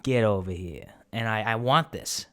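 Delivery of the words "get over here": inviting Italian-American beckoning; Italian impression. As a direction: welcome it over in a mock Italian-American accent. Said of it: "my Italian impression".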